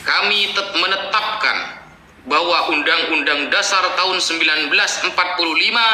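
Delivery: mock official decree. Giving an example of the royal we, proclaimed decree. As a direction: declare it like a state decree.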